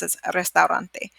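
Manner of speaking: restaurante said quickly and softly; fast. Shown as a demonstration. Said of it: "when you're saying it fast".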